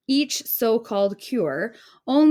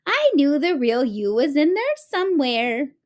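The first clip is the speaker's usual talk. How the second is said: higher, tender granny voice; kind old woman; 6 semitones higher, 4 dB louder than usual. A narrator's reading. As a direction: gently reassure the girl. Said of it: "said the old woman".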